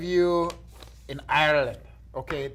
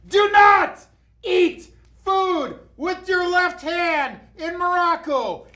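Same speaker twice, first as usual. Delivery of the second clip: high, slow, loud proclamation; booming shout; 13 semitones higher, 7 dB louder, much slower than usual. Acted. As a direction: announce it at top volume. Reading rule in a big voice.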